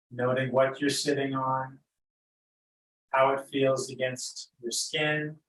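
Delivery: unhurried, lead them gently into noticing breath and body; guided meditation. Real, not acted.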